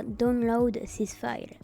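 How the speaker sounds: download this file in an English accent. Real, not acted. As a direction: say the English words the English way. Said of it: "Ouais, je sais, j'ai un accent anglais".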